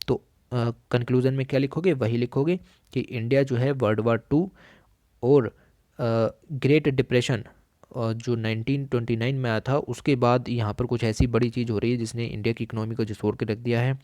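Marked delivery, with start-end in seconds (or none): none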